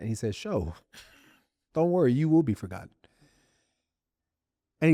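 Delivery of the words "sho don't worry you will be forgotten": completely serious, no joking. Retelling what a buddy said about being forgotten: imitating Adam Thomason's dead-serious tone. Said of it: "he said it with such, like, seriousness".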